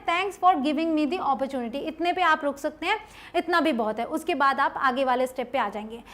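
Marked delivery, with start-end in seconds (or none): 0.0-1.7 slow, clear short version; slow demo of the short option; slow model sentence. Shown as a demonstration. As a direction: say it slowly so they copy it. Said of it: "तो छोटा option है".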